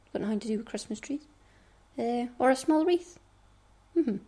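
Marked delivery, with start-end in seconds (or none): 0.1-1.3 fast, soft whisper; quick whispered aside. Real, not acted. Explaining the snowflake idea, quick whisper. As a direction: rush it out under your breath.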